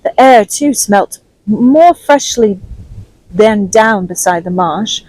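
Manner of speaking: steady storyteller reading aloud; story narration. A narrator's reading. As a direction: read it like an audiobook chapter. Reads Treasure Island chapter aloud.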